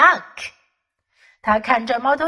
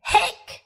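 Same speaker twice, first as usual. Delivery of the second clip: hiccup sound. Acted. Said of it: "said Little Bear".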